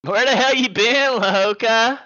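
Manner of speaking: Impression of a rapper. Streamer greeting a viewer as a rapper, lightly voiced. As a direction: call out like a rapper. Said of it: "rapper impression".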